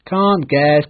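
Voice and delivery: teasing joyful call; happy shout. Acted. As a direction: crow it out cheerfully. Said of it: "Peter shouted happily".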